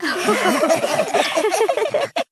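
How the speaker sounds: bright laughing together; a joyful high laugh. A narrator's reading. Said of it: "They all laughed".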